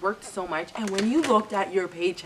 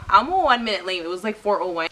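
louder, firm pushback; arguing back; 6 dB louder than usual. Retold or imitated. Arguing with the coworker over being late, louder and firm. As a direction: insist you were only one minute late.

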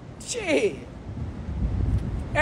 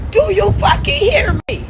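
shout; 10 semitones higher than usual. Acted. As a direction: yell it at them.

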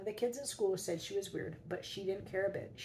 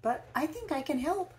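put-on high, bright old woman's voice; said brightly; 9 semitones higher, 5 dB louder than usual. Old woman at the door to Mister Cream, bright and high. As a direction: offer help cheerfully, up high. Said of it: "she said brightly".

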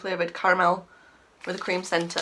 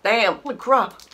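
shocked; 2 semitones higher, 5 dB louder, slower than usual. Real, not acted. Reacting to very sour candy.

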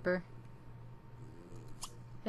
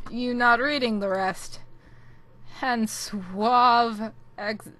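put-on slow, playful Russian-accented reading; loosely faked Russian accent; 6 dB louder, slower than usual. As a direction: lapse into a mock Russian accent, drawing words out. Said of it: "why am I talking like this?".

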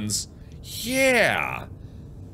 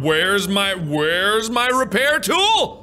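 frantic; 4 semitones higher, slower than usual. Real, not acted. Panicked search for lost tool.

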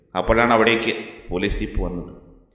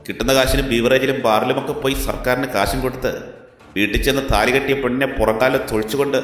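defiant anger; 3 semitones higher than usual. Acted. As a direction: lay into the corrupt officer without backing down. Hero confronts abusive police officer. (ഉയർന്ന സ്വരത്തിൽ രോഷത്തോടെയുള്ള വെല്ലുവിളി)

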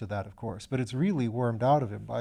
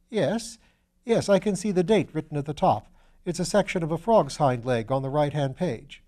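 put-on young student; 4 semitones higher, 4 dB louder than usual. Piggott voiced as a young student.

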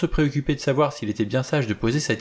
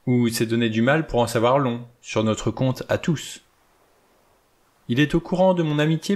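a lightly raised, clipped-free precise judge voice; 3 semitones higher than usual. Acted. The judge lays out the evidence to his guests, precise and measured. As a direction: speak like a neat, exact old judge. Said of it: "de sa petite voix nette".

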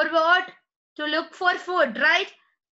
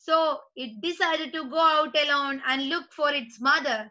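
story read-aloud; much slower than usual. Acted. Reads the story to class.

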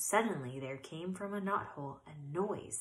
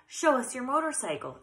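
higher, louder little mice; squeaky cousins; 6 semitones higher, 4 dB louder than usual. A narrator's reading. Little cousins begging Ralph, squeaky pleading. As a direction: pester like squeaky kids. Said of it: "they squeaked".

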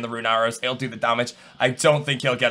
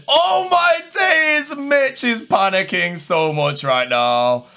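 high, drawn-out yell, easing down; excited shout; 9 semitones higher, 5 dB louder, much slower than usual. Real, not acted. Streamer seeing his opponent panic, excited shout. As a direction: shout it loud and slow, then descend.

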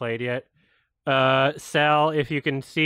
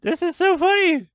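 laughing; 4 dB louder, slower than usual. Real, not acted. Laughing at the trailer.

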